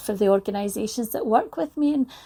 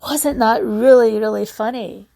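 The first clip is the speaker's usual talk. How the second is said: delighted question; 7 dB louder than usual. Retold or imitated. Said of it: "you're saying to the people with you".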